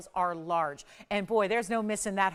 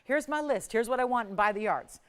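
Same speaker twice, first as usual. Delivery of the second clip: higher-pitched quote of customers; imitated eager customers; 3 semitones higher, 4 dB louder than usual. Host quoting what everybody says to her, imitated customer requests. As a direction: voice the customers reciting their wish list. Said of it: "Everybody says to me all the time".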